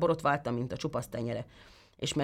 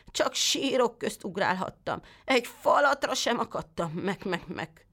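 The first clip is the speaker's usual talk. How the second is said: lightly voiced sly goat, higher, ending in a bleat; whining goat; 5 semitones higher than usual. The goat lies to the tailor in a whining goat voice. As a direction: whine it and trail into a bleat.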